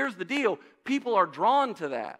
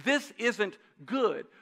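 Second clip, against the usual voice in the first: slow, understated grief; 3 semitones higher, much slower than usual. Retold or imitated.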